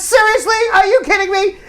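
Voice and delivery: mock angry wife. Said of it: "And she says".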